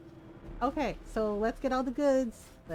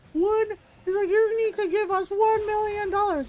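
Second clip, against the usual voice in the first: Doctor Evil impression; 10 semitones higher, 7 dB louder than usual. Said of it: "Doctor Evil".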